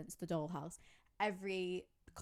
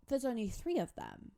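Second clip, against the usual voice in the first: normal talking voice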